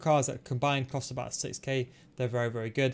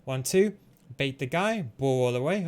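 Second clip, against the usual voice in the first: excited; 4 dB louder, slower than usual. Real, not acted. Excited play calling goal.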